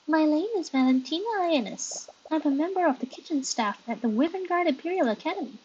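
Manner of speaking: ditzy airhead introducing herself; bimbo voice. Acted. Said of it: "I'm gonna give you a bimbo voice".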